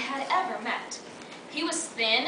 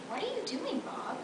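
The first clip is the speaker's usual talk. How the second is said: high, soft, nervous query; hushed alarm at a lover; uneasy question; 8 semitones higher, 8 dB quieter than usual. Acted. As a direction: ask it uneasily, small and high. Uneasy while being undressed.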